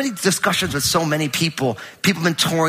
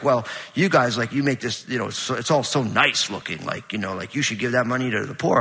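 a hint of a grumbling critic, lower and softer; mock critic; 5 semitones lower, 4 dB quieter than usual. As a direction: lightly lower and quieter, playing the scold. Pastor voices a critic of Crossroads.

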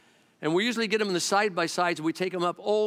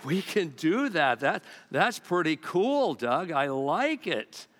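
sheepish agreement; much slower than usual. Retold or imitated. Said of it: "And we go".

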